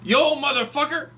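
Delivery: put-on loud, high drunken threat. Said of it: "he gets up and he goes".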